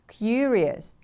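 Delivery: "Curious" with a stretched, stressed CU; stress on first syllable. Shown as a demonstration. Teacher models the word for repeating, stress on CU in "Curious". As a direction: lean long on the start of "Curious", then fall. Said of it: "The stress is on the first syllable".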